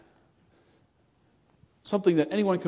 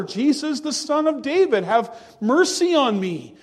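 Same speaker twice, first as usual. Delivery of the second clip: "Jesus, the Son of David" called out louder and higher, pleading; a blind man's pleading call, raised up; louder cry; 3 semitones higher, 4 dB louder than usual. Retold or imitated. Blind man cries louder to Jesus over the crowd, a louder pleading call. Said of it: "he said it even louder".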